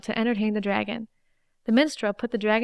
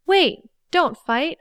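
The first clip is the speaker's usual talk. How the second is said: high, slow cry for help; fluttering cries for help; 7 semitones higher, 5 dB louder, much slower than usual. Acted. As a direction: call out, drawn out and pleading. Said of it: "So the maiden cried out".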